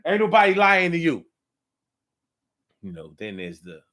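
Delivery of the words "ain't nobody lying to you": loud, higher-pitched denial; mock indignant comeback; acted defensive protest. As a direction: imitate someone insisting. Acts out a defensive quarrel.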